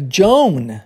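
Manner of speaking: "Joan" with O and A as one oh-glide; pronunciation of Joan. Shown as a demonstration. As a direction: model "Joan" to rhyme with "bone". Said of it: "a pronúncia fica".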